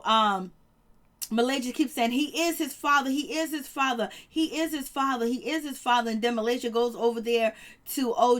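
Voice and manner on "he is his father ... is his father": insistent repeats leaning hard on "is"; imitated insistence. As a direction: stress on IS, pitched up each time.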